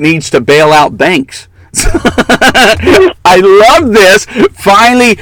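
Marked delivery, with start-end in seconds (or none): 1.7-5.2 excited. Real, not acted. Glee at boos for Kasich.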